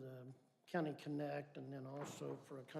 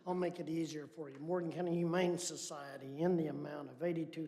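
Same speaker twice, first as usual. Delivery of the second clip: much louder, projecting voice; speaking up; 10 dB louder than usual. Real, not acted. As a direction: speak up so TV viewers can hear. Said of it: "gonna have to speak up".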